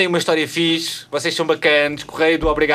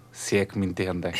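sensual voice; 6 semitones lower, 9 dB quieter than usual. Acted. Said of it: "Porque estás a fazer uma voz sensual".

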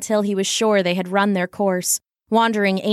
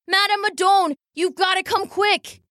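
higher, urgent cry for help; urgent call; 9 semitones higher than usual. Acted. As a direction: hurry her, the wagon burns. Calling out alarm.

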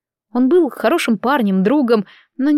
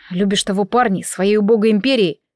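usual speaking voice

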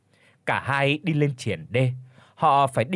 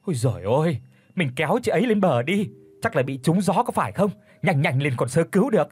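panicked wife. Acted. Wife urges rescue in panic.

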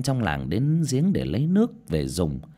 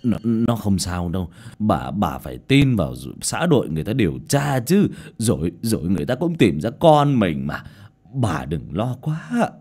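comforting husband; 3 dB louder than usual. Acted. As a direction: soothe your wife gently. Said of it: "Ông Lương vỗ vỗ vai vợ an ủi".

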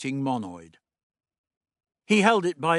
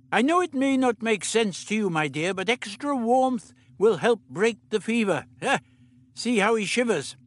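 put-on higher, brisk old doctor; 7 semitones higher than usual. The Doctor instructing Meliam, brisk fussy voice.

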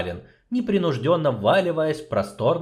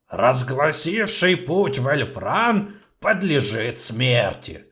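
gloomy quote; 3 semitones higher, slower than usual. Acted. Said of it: "угрюмо процитировал гном".

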